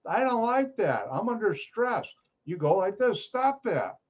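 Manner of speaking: high, put-upon complaint; playing someone bothered at a party; mock annoyed partygoer. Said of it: "somebody was at, talking to you and doing this".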